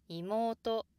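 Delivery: 妹 rises after the first sound and stays high; accent at the end. Shown as a demonstration. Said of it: "downstep only when something else follows".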